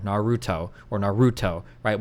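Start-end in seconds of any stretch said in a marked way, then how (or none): 0.0-0.7 Naruto with the RU stressed; English-style Naruto, weight on the middle syllable; stress on second-to-last syllable. Shown as a demonstration. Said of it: "accent from the second to last syllable". 1.0-1.6 Naruto with a strong English stress; demonstrating a stressed Naruto; English stress demo. Shown as a demonstration. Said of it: "accent from the second to last syllable".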